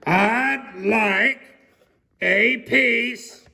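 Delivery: loud, high, drawn-out shout; booming shout. Acted. Mister Noisy repeating his order, loud and high. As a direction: clear the throat, then bellow. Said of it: "I said".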